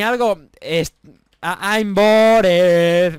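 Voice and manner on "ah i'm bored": very slow, drawn-out bored sigh. Acted. Gamer waiting on a ledge for the others, slow and bored. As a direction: stretch it out, bored stiff. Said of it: "Me siento aburrido".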